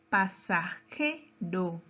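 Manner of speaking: very slow "pasajero", broken up with weight on "je"; stressed syllable shown. Shown as a demonstration. Teacher asking the word's type by its accent, syllable-by-syllable stress. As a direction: sound out "pasajero" in pieces, stressing "je". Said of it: "Según su acento".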